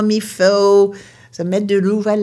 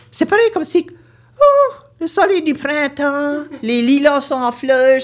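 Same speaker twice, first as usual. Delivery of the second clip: bursting with joy at spring; light up remembering the lilacs; excited delight; 5 semitones higher than usual. Retold or imitated. Joyful memory of spring. (joie éclatante)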